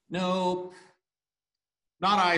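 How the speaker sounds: high lion character voice. Acted.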